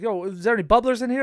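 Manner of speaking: lightly voiced Boston guy asking about bubblers; Boston accent. The Boston recruit asking for bubblers, in a mild Boston accent. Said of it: "We had another guy from Boston".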